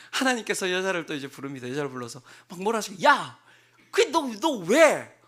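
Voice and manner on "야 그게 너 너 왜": loud, slow mock scolding; mock angry scolding. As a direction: scold her loud and slow, as he did not. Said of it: "이렇게 하셨겠습니까?".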